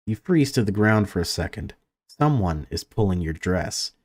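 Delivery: lively read-aloud of game text; story narration. A narrator's reading. Gamer reads entering a child's room, story narration. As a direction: narrate the scene with lifted openings to sentences.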